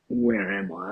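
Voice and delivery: high, bewildered "Where am I?"; dazed mock confusion; confused waking. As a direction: sound lost and disoriented, pitch jumping up. Waking up confused after seizure.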